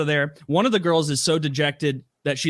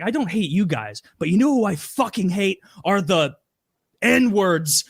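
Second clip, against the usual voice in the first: worked-up, higher-pitched retold rant; mild mock scream; 5 semitones higher than usual. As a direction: imitate a ranting host without full volume. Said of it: "he starts screaming and he's like".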